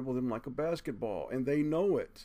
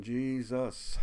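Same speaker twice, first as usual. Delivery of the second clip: crying out; 4 semitones higher, 6 dB louder than usual. Retold or imitated. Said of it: "You will start saying".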